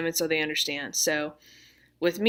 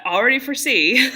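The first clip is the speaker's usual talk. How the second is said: laughing; 8 semitones higher, 10 dB louder than usual. Real, not acted. Laughs about tomorrow's failures.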